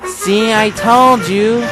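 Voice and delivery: chuckling. Acted. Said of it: "James chuckled".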